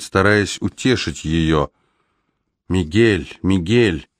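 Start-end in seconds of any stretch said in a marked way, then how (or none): 2.7-4.1 faint, quavering grandmother voice; a frail old woman calling out; weak trembling old woman. A narrator's reading. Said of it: "Её слабый голос дрожал". (слабый дрожащий голос бабушки)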